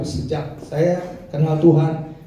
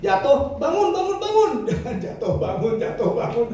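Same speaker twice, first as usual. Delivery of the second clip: mock jatuh bangun; 6 semitones higher than usual. Mocking dangdut rise and fall.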